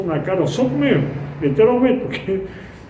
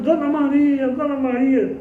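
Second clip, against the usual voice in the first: calling out; 6 semitones higher than usual. Retold or imitated.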